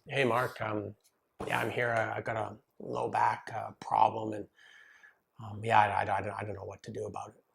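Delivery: soft, hesitant mumble of a nervous client; hesitant, hedging, voice low and small; nervous reserved client. Retold or imitated. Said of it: "a reserved, nervous person".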